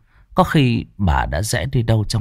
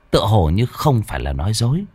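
ordinary delivery, nothing marked

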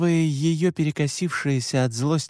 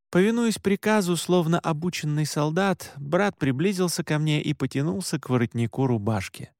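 usual speaking voice

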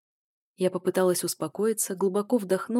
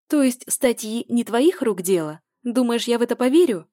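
angry accusation; 5 semitones higher, 8 dB louder than usual. A narrator's reading. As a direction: drag out the accusation. Heroine accuses him further.

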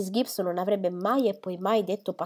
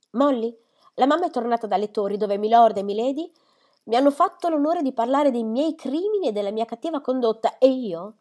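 put-on sharp young woman, higher and louder, protesting; sarcastic daughter defending herself; defiant daughter; 4 semitones higher, 5 dB louder than usual. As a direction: ironic protest at being gossiped about.

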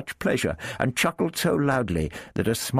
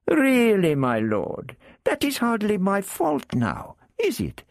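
much higher, wheedling Arab character; Arab thief voice. Acted. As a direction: lift the voice high for the sly Arab.

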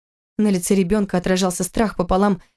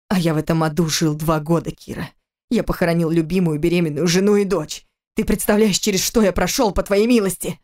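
growled in her face. Acted. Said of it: "прорычал в лицо".

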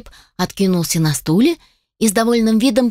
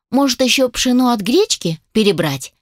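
snide sarcastic jab, pitched higher; 5 semitones higher than usual. Acted. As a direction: needle him with mock helpfulness. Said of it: "съехидничала я". (ехидно, с издёвкой, выше)

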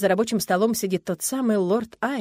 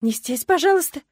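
frightened pleading; 8 semitones higher, 5 dB louder than usual. Acted. Wife begging husband.

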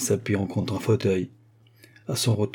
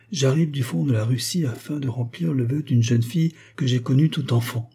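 put-on old false priest, voice trembling slightly, a bit higher; a touch of an old man's tremble; quavering voice; 4 semitones higher than usual. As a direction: let the words waver like a frail old man. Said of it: "d'une voix chevrotante".

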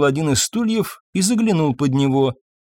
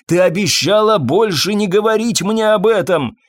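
high, louder pleading; desperate plea; 7 semitones higher, 4 dB louder than usual. A narrator's reading. Fabien begs Irene not to bring it up, desperate and high. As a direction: beg her to stop.

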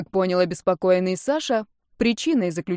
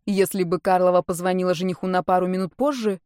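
plain reading voice

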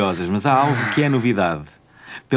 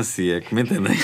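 laughing innuendo; 5 semitones lower, 3 dB quieter than usual. Acted.

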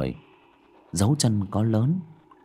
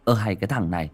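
mocking scold, getting louder; teasing; 3 semitones higher, 4 dB louder than usual. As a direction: jeer at his scared friend. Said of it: "cất tiếng châm chọc". (giọng châm chọc, to dần)

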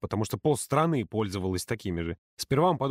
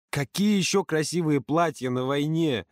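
indignant; 5 semitones higher than usual. Acted. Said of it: "возмутился Юрка".

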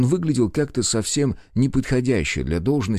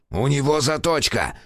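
slow, sharp warning bark with a raised pitch; 6 semitones higher than usual. A narrator's reading. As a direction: bark the warning with stress on него. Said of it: "рявкнул сыщик".

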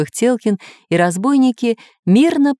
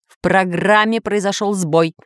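a hint of a crisp soldier, slow; military report. Computer reporting to the master, lightly military and slow. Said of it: "чётко по-военному доложил".

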